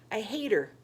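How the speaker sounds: through sobs. A narrator's reading. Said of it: "Jess said through his sobs".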